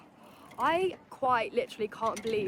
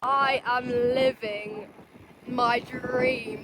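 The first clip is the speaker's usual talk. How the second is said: overjoyed; 6 dB louder, much slower than usual. Real, not acted. Overwhelmed at view.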